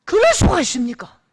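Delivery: imitating a furious elder, high and loud; angry complaint. Elder venting to his pastor, mock furious outburst. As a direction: play the outraged father, voice climbing as he vents. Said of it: "화를 내시는데요".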